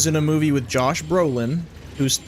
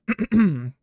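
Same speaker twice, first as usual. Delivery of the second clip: throat clear; 6 semitones higher than usual. Shown as a demonstration. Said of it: "Gotta read this in the transatlantic accent".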